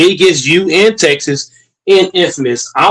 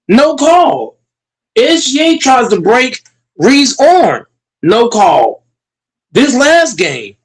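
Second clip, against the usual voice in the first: rising disbelief, venting hard; heated rant; 2 semitones higher than usual. Real, not acted. Heated rant about missed calls.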